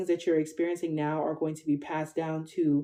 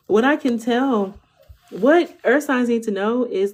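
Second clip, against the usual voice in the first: laughing; 5 semitones higher, 6 dB louder, slower than usual. Real, not acted. Laughing into the reading.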